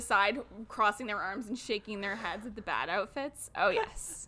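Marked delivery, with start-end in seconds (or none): 3.6-4.3 breathless delighted whisper; soft, breathy whisper of approval; whispered oh yes. Real, not acted. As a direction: whisper it with relish.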